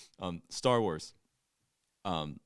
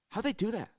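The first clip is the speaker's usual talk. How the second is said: retold amazement; 9 semitones higher, faster than usual. Imitates companion's amazed repeated question.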